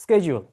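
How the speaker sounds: শিডিউল said as SKED-jool, starting with a hard sk; correct schedule. Shown as a demonstration. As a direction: say শিডিউল as sked-jool, not shi-dyul. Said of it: "আপনি আজকে থেকে শিডিউল বলবেন".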